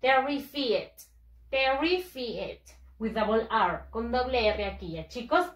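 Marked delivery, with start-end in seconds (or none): 0.0-2.6 terrified read as written, ending "fee-et"; spelling pronunciation of terrified, Spanish-style vowels; read as spelled. Shown as a demonstration. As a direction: say "terrified" letter by letter sound, ter-ri-fi-ed. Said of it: "se escribe así".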